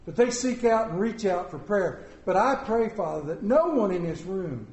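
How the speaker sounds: earnest, measured prayer voice; pastoral prayer. Real, not acted. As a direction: pray over the room with steady sincerity. Leading congregational prayer.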